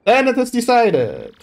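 a showy, theatrical rich merchant; pompous merchant voice. Acted. Boastful merchant recruiting the hero for a voyage, theatrical. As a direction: play it grand and self-important. Flavio sends them off.

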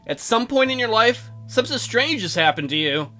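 measured visual-novel narration; story narration. Acted. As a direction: read the story aloud with some gravity. Reads the visual novel aloud.

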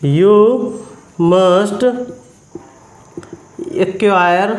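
each word set apart with long pauses. Shown as a demonstration. Teacher dictating the sentence word by word to students. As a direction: give the class one word at a time. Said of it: "बोल सकते हैं ना".

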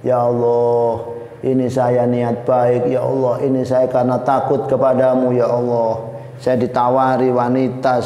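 mild, sustained plaintive wail; tearful mock prayer. Young man praying to Allah about the smell, plaintive. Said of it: "sampai berhari-hari nangis dia".

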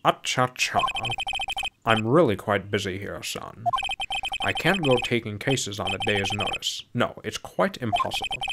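lightly voiced stuffy older lawyer; a hint of an uptight, grand character; uptight prosecutor. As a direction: brush them off with mild fussiness. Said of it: "uptight version of the prosecutor".

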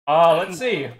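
talking with a mouthful of food; chewing through the words; mouth full. Real, not acted. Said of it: "I'm gonna do the recap with my mouth full of food".

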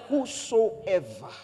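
"Whosoever" stretched very slow; drawn-out whosoever. Real, not acted. Preacher stressing the key word by slowing down. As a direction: draw "Whosoever" out long and slow. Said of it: "It's whosoever".

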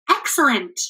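mild shout. A narrator's reading. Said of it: "shouted the travelers".

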